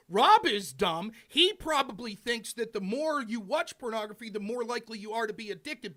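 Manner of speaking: slow, deliberate, word by word; over enunciating. Shown as a demonstration. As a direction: spell it out slowly, condescending. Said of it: "let me repeat it slowly for you".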